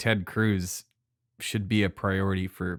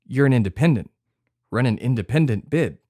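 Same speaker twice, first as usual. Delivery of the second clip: pushy urging; 3 semitones higher, 6 dB louder than usual. Real, not acted. Urging friend to run.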